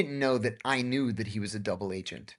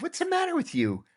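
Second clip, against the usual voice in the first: laughing; 12 semitones higher than usual. Retold or imitated. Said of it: "I laughed and I said".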